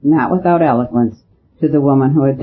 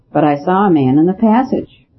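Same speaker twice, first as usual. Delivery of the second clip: pressed hard, pitched higher; unusual emphasis; 4 semitones higher than usual. A narrator's reading. Seymour to the priest, insisting with odd emphasis. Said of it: "with an emphasis quite alien".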